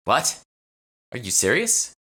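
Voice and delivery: high, loud stunned question; shocked disbelief. A narrator's reading. Jade stunned by Emma's news about her gran. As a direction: gasp it out in disbelief.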